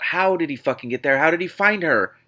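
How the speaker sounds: high, loud disbelieving question; incredulous. Real, not acted. Reader, baffled by the plot, asks loudly. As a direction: demand it in disbelief. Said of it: "disbelief at plot".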